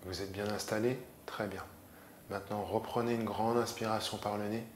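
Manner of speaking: calm yoga nidra instruction; measured relaxation voice with long pauses; guided meditation. Acted. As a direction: guide them gently into rest, pausing often.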